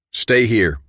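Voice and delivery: curt, sharp "Stay here"; snapped order. Acted. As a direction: bark the order to the room. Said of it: "he snapped".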